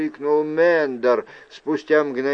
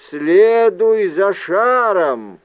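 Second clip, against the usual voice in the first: slow, loud, higher proclamation; ghost's announcement; 5 semitones higher, 7 dB louder, slower than usual. A narrator's reading. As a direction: announce it slowly and loudly, drawn out. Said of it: "голос призрака объявил". (громкое протяжное объявление призрака)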